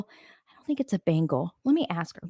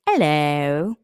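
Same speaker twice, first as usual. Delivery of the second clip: loud meowed hello, dipping then rising; talking-cat meow; 2 semitones lower, 6 dB louder than usual. Retold or imitated. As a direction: imitate the cat's English meow. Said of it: "that's his meow".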